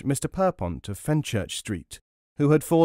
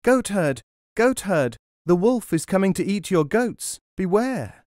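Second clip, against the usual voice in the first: high, loud warning call across a field; 8 semitones higher, 4 dB louder than usual. A narrator's reading. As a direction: shout the warning to a distant goatherd. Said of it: "called out at the top of his voice".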